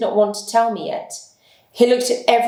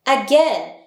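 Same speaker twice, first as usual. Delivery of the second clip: urging cry; 5 semitones higher than usual. Acted. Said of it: "we shouted as loudly as possible".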